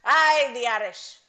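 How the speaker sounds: hopeless stab at an Irish accent; attempted Irish accent. Shown as a demonstration. Actress asked for Irish by host, half-hearted Irish accent. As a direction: try an Irish accent and give up. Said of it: "can you do an Irish accent".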